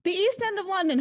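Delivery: said high through laughter; laughing. Real, not acted. Host repeating the place while still laughing, real laughter. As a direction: laugh the words out.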